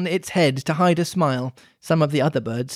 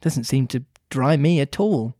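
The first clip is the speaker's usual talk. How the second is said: melancholy; 3 semitones lower than usual. Acted. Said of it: "in a melancholy tone".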